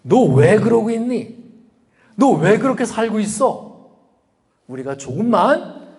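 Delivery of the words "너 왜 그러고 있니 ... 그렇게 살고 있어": higher, insistent acted rebuke; raised, admonishing tone; reproving question. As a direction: press the question like a voice calling someone to account. Voicing God's rebuking wake-up question.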